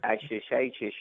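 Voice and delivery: nasal Michael Caine impression. Shown as a demonstration. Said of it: "the key to Michael Caine is, um, is the nasal part".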